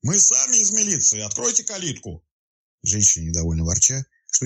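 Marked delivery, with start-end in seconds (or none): 0.0-2.2 high called-out order over the fence; shout. A narrator's reading. Detective calling to the woman behind the gate, high shout. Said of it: "и крикнул".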